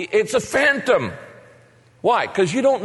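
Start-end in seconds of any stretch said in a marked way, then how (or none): 0.0-1.1 higher, acted alarm; mock frightened cry. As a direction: cry out as the startled disciples. Re-voices the disciples' terrified cry.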